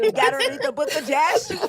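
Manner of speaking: high, laughing imitation of a believer; giggling through a mock insistent quote. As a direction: quote him while cracking up. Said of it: "And he was like".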